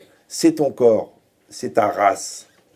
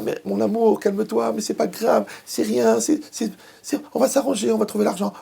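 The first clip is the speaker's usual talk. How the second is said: much higher, pleading and placating; soothing the angry partner; 10 semitones higher than usual. Retold or imitated. Spouse begging a raging partner to calm down, high pleading voice. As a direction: coax a partner out of a rage, voice pitched way up. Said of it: "Et toi, t'es là".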